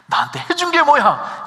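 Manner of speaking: 게 in "해준 게 뭐야" stressed, high and loud; teen talking back. Retold or imitated. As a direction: throw it at the parent like a defiant kid. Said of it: "이렇게 얘기하면 얼마나 속이 상해".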